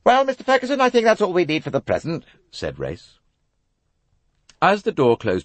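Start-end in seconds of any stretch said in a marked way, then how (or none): 0.0-2.2 clipped official questioning, higher pitch; a crisp police colonel; stern inspector. A narrator's reading. Colonel quizzing the young passenger, businesslike. Race dismissing.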